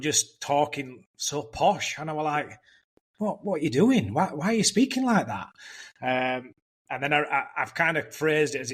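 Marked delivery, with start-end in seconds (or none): 3.2-5.5 mock-incredulous questioning, pitch swinging up and down; retold incredulity. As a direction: act out baffled disbelief at a mate's accent. Retold startled question to posh-talking friend.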